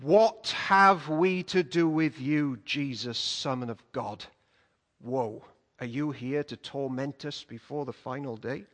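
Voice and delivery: low, slow, hollow demon voice; demons crying out. Retold or imitated. Demons crying out to Jesus, low and slow demon voice. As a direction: drag the words out like a demon. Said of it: "the demons cried out".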